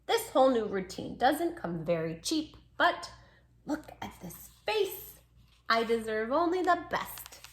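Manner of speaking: gentle storybook reading as the pup; lightly voiced pup narrating; reading to children. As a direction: read it like a bedtime story. Reads dog's story to children.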